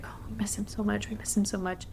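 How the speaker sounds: imitating tearful, whispered longing; emotional parents. Grandparents leaving the NICU, whispered tearful longing. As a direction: softly voice the grandparents' heartache. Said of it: "they would get very emotional".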